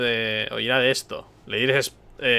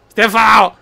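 mock angry; 8 semitones higher, 11 dB louder, faster than usual. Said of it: "puedo hacer barra angry".

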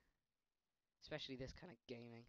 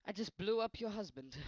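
mock apology; 8 semitones higher, 10 dB louder than usual. Real, not acted. Apologizing to game lady.

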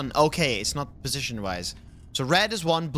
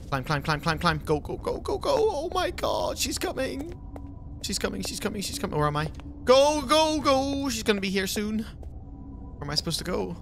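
breathless, high panicked urging; being chased; 5 semitones higher than usual. Real, not acted. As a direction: scramble away in a panic. Fleeing the monster in game.

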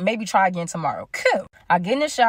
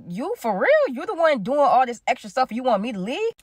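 mildly incredulous, higher questioning; retold disbelief; 3 semitones higher than usual. Told to leave the house, acting out mild incredulity. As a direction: act out being put out and not believing it.

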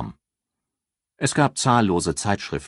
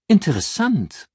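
drawn out; 12 semitones higher, 4 dB louder than usual. A narrator's reading. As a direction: stretch the word out, pitched high. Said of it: "sagte Ann gedehnt".

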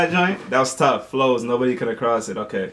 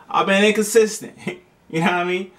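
laughing through it, pitch jumping higher; 7 semitones higher than usual. Real, not acted. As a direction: giggle while confessing. Laughing at own absence.

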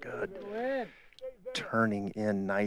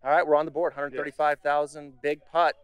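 excited; 5 semitones higher, 8 dB louder than usual. Real, not acted. Celebrating the winning putt.

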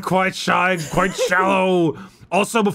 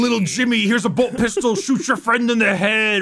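wrestling promo; 4 semitones higher than usual. Acted. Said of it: "This has turned into a wrestling promo".

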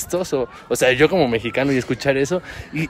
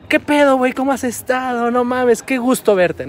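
Mexican greeting; 10 semitones higher than usual. Retold or imitated. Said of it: "en México, ya saben, es". (saludo mexicano efusivo, agudo y fuerte)

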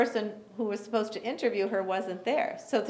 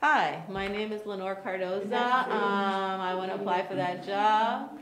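lower, softer, lifeless voice; flat dull caller; 4 semitones lower, 4 dB quieter than usual. Shown as a demonstration. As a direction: mumble it without any interest. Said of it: "Does that sound better than".

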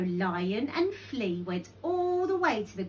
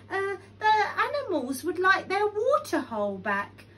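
high, louder, hesitant plea; nervous request; 10 semitones higher, 5 dB louder than usual. A narrator's reading. Lion asking Crocodile for the water hole, nervous. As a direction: ask timidly in a raised pitch.

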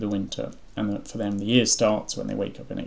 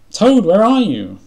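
high, drawn-out loud call; 12 semitones higher, 14 dB louder, slower than usual. A narrator's reading. Frog searching for Toad in the dark, calling out. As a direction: call slowly into a dark house. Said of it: "called Frog".

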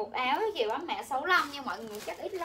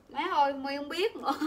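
breaking into a real laugh. Real, not acted. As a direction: say it, then laugh helplessly. Bật cười vì không biết. (vừa nói vừa bật cười)

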